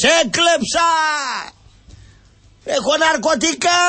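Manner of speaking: mock shouting confession. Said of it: "Δεν φωνάζεις". (κοροϊδευτική φωνή από το παράθυρο)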